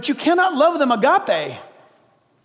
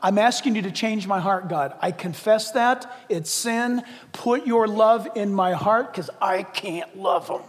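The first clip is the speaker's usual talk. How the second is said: honest model prayer; 4 semitones lower, 4 dB quieter than usual. Shown as a demonstration. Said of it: "Tell him".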